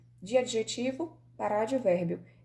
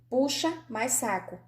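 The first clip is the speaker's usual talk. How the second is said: slow separate words; 2 semitones higher, slower than usual. Shown as a demonstration. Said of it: "eu pronuncio as duas na íntegra".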